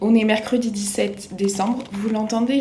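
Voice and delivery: just woke up, voice still heavy; morning voice. Real, not acted. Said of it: "j'ai ma voix du matin".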